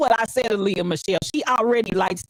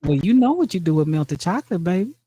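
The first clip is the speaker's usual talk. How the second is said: man voice. Pretend. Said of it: "man voice so good".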